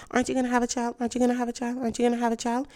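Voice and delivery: nagging question. Retold or imitated. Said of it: "people tend to be asking".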